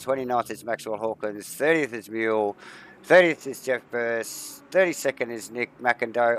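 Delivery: breathless from reading the long list; running short of air mid-list; out of breath. Real, not acted. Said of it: "I'm running out of breath".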